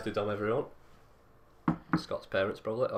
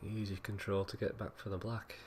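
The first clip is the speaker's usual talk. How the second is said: radio voice; 3 dB quieter than usual. Acted. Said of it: "Put my radio voice on".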